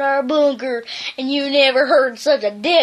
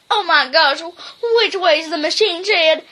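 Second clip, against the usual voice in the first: panicky little dog; 3 semitones higher than usual. Acted. Drover voice panic.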